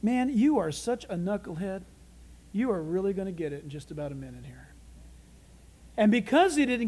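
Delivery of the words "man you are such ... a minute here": low, quiet, dry aside; muttering angel. Acted. Invisible angel beside Herod, quietly scornful of him. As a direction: say it low, under your breath. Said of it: "talking in angel talk, which translated would say".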